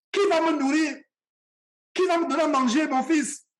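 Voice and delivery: gently guilt-trip your son, acting the mother; retold sweet-voiced pleading, lightly tearful; imitated soft-voiced mother. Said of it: "Une voix douce".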